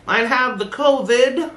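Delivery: high, slow put-on sick voice; fake sick call. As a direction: fake being sick on the phone to the boss.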